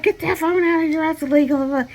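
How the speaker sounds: high, sharp mock scolding; stern order. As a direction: bark it like a tower boss. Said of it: "They're like".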